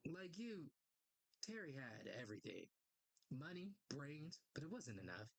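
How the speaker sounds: measured storytelling with dramatic pauses; comic story narration. Acted. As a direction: recount a fallen hero's story deliberately. Reads character's story aloud.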